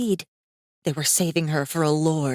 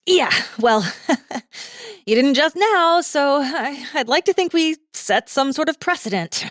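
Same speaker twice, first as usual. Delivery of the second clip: put-on nervous joking girl; 9 semitones higher than usual. Girl joking nervously about his restraint, high with a laugh. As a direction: joke past the fear.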